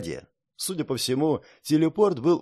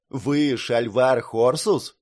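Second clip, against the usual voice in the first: to someone hard of hearing; much slower than usual. Acted. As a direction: speak up into his ear. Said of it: "чуть громче спросил".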